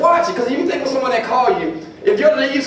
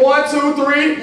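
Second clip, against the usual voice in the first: louder count; 4 semitones higher, slower than usual. Shown as a demonstration. Speaker leads the crowd count, louder. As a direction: count one two three with more force. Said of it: "Let's say like we mean it".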